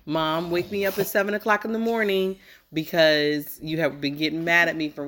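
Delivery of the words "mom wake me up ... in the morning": slightly raised voice for a quote; quoting her son. Retold or imitated. Mom quoting her son's own words to him, quoting. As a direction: recite the child's request back. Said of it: "You said".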